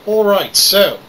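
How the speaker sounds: put-on Irish brogue throughout; hammy Irish accent. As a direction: play it as a cheeky Irishman. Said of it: "today I'm playing Star Citizen with an Irish accent".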